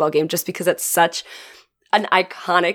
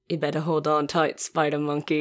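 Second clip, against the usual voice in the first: movie line quote; 3 semitones lower, 7 dB quieter than usual. Retold or imitated. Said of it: "Vampire Sucks version of".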